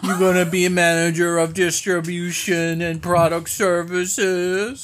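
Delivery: lightly voiced gushing aunt; a hint of an overexcited relative; doting aunt voice. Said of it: "It's like your aunt".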